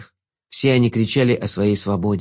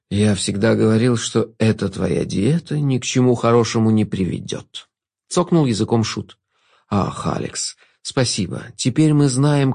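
sultry narrator. Acted. Jester's voice in story. (бархатный голос Шута)

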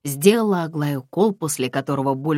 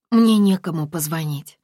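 sobbing; 3 semitones higher, 5 dB louder than usual. Acted. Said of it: "всхлипнула Аглая".

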